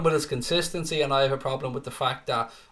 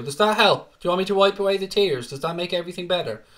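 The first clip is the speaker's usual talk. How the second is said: loud, then fast mock sympathy; mocking taunt; 4 semitones higher, 3 dB louder than usual. Real, not acted. Streamer teasing a Chelsea viewer, in mock pity.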